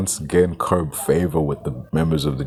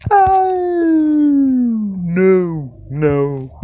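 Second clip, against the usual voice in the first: a sudden high yelled "Oh" of disbelief; exasperated shout; 13 semitones higher, 5 dB louder, much slower than usual. Real, not acted. Ranting YouTuber yelling in disbelief at Rowling's claim, loud shout. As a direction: blurt it out loud, fed up.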